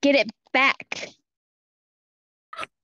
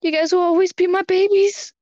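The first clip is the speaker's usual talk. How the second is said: sweet eerily obsessive voice; 6 semitones higher than usual. Acted. Doting dad to his kids.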